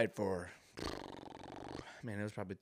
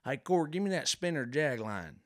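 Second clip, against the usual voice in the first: louder redneck drawl, mouth full of dip; 6 semitones higher, 5 dB louder than usual. Retold or imitated. Redneck asking for bait with dip in his mouth. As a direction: bark the order like a redneck. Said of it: "they always got a dip in their mouth".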